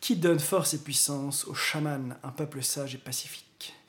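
slow, dramatic blurb reading; trailer voice narration. Acted. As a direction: read it like a movie trailer. Reads the DVD blurb dramatically.

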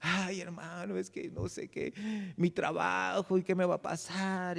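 soft, drawn-out mock fretting; worried lament. Discouraged member pouring out worries to a brother, worried lament. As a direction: imitate a discouraged believer moaning softly.

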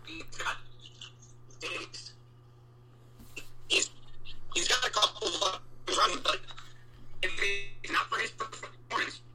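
choppy robotic connection dropout; breaking up over a bad call line; pitch wobble glitch. Real, not acted. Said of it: "like a robot right now".

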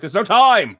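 high, loud rushed shout; a harried father hurrying everyone along; frantic dad. Retold or imitated. Dad yelling at Kevin in the airport, high and loud. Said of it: "And the father's like".

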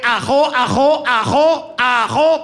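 put-on high, loud choppy "ajo, ajo" like an old woman; stuttering granny. Comic imitates his grandmother stammering, high and loud. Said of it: "es tartamuda".

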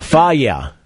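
Faya said as FAH-yeh; correct brand pronunciation. Shown as a demonstration. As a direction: say Faya in two syllables, stress first. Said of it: "How would you say it?".

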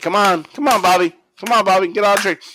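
high-pitched mock mom calling a child; pleading mom. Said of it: "and the mom's like".

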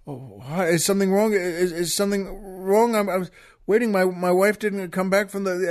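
mildly anxious, halting stammer; nervous stammering. Acted. Husband opening the door to grim troopers, nervous stammering. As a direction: stumble over the questions, mildly worried. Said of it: "his hand is shaking a bit".

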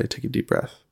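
soft, near-whispered reassurance; hushed retold parental comfort; relaxed calming. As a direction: quietly soothe an upset child. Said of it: "relax and put my hand on her chest".

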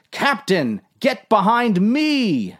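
high, urgent yelled order; protective yell. A narrator's reading. Dave ordering the captain behind him, urgent yell. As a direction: call out high to shield someone. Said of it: "yelled Dave".

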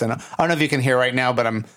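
dry, creaky voice with vocal fry. Real, not acted. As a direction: let the voice crackle into fry. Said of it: "dryness and vocal fry".

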